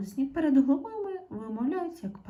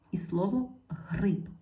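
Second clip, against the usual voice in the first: slow, careful "і слово гриб"; slow teacher stress. Shown as a demonstration. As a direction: dwell on "гриб" slowly. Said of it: "подивіться".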